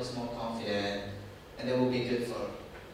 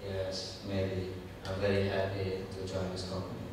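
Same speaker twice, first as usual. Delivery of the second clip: lower, softer mock-lukewarm yes; half-hearted candidate; 4 semitones lower, 4 dB quieter than usual. Job candidate mocked for sounding unenthusiastic. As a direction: mumble it like a candidate who doesn't care. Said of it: "they definitely don't want someone who's like".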